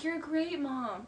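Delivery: imitating his syrupy act; fake sweet. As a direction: drag it out with put-on sweetness. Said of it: "the sweet thing is a fake act".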